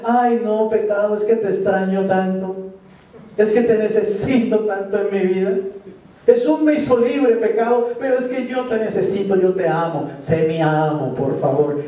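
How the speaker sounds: pleading with sin. Acted. A believer begging sin not to leave, hammed-up pleading. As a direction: beg sin to come back like a helpless lover. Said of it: "volver uno al pecado y decirle".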